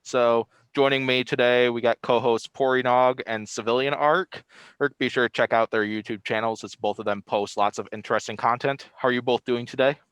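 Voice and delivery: muffled behind a face mask; through a face mask. Real, not acted. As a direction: talk through a mask over the mouth. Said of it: "Excuse the mask I'm wearing right now".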